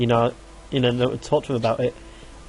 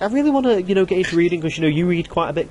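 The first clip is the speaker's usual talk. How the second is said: lightly mimicked friend, pitched higher; imitating a friend; 5 semitones higher than usual. Quoting George wanting to get into reading, higher imitated voice. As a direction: start high, easing down, quoting a friend. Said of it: "George is like".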